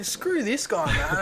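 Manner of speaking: high, loud mock outburst; retold road rage. Retells his road-rage moment.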